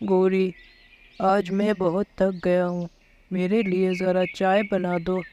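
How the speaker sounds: lightly voiced weary husband asking for tea; husband Kalu. Kalu asks wife for tea.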